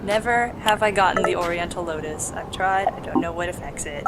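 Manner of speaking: ordinary delivery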